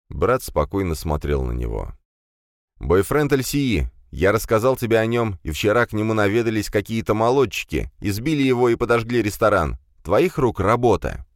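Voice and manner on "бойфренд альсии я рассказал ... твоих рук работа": angry accusation. Acted. Commissar accuses brother.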